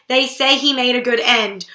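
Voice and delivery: sly dig, stress on he; wry, pointed jest; mock joking. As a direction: say it as a joke at the dead man's expense. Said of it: "she's making jokes about her dad dying".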